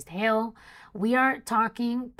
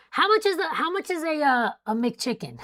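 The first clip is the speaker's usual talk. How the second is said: breaking into a laugh on it; giggling at her own joke; 6 semitones higher, 4 dB louder than usual. Real, not acted. Joking to viewers about a McChicken, laughing.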